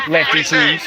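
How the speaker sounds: loud shout of the name "Lefty Tunes"; shouted callout. Real, not acted. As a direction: yell "Lefty Tunes" right at him. Calls out a commenter.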